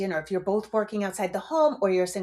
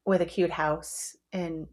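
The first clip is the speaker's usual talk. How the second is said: laughing through it; 2 semitones lower, slower than usual. Real, not acted. Laughing at own joke.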